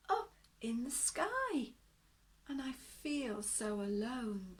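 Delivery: a lonely creature close to tears; beast crying. Acted. Lost beast telling Aluna his woes, tearful. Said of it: "the beast cried".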